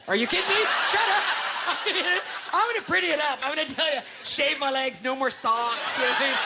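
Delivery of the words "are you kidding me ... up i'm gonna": high delighted squeal; giddy excitement. Acted. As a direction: gush with excitement. Giddy delight about ghost.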